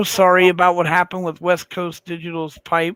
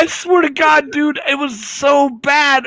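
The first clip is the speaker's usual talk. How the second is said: laughing through it; 5 semitones higher, slower than usual. Real, not acted. Laughing while recounting.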